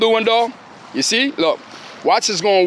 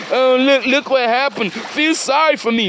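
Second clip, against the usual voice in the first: higher-pitched imitation of someone begging for pity; mock pleading; 3 semitones higher than usual. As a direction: mimic a sorry plea in a put-on voice. Mimics someone begging him for sympathy.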